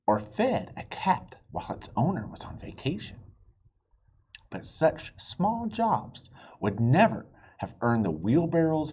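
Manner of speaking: lively read-aloud for little listeners; storybook reading. A narrator's reading. Dad reading a chapter book to his kids, animated. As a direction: read it like bedtime story time.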